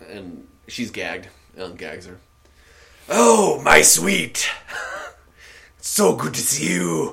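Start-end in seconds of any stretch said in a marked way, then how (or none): 3.1-7.1 very loud, rough, high female orc croak. Game narrator voicing a freed female orc greeting the orc who untied her, female orc voice. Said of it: "I can't even do this voice".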